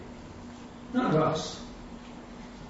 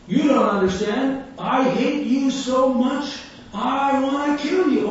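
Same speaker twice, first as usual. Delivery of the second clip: raised, high-pitched hateful outburst; heckler's yelling; 6 semitones higher, 4 dB louder than usual. Retold or imitated. Angry heckler to street preacher, imitated high raised yelling. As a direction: play a heckler yelling, stretching the words. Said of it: "this guy keeps yelling".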